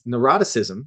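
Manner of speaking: "neuroticism" said slowly and clearly; careful pronunciation. Shown as a demonstration. Teacher showing how to pronounce the term, "neuroticism" said slowly. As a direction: sound out "neuroticism" slowly as a model. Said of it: "is how you pronounce it".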